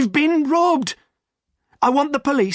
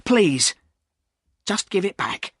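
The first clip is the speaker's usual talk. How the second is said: raised, begging voice; pleading; 7 semitones higher than usual. Acted. Silas pleading with Jem, a touch of begging. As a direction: beg him to return it.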